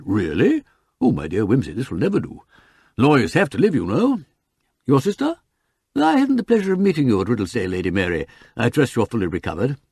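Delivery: effusive barrister with swooping pitch; sociable learned counsel. Acted. Counsel greeting Wimsey and his sister, effusive. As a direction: greet them in grand courtroom manner.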